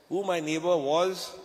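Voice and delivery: slow, drawn out, stress on neighbor; slow teasing repeat. Shown as a demonstration. Speaker makes the audience wait and guess, slowly. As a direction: drag out who my neighbor was. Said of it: "And you know who my neighbor was?".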